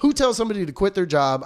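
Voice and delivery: high, loud laughing incredulity; Who tells somebody, laughed through in disbelief. Retold or imitated. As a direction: laugh it out, can't believe it.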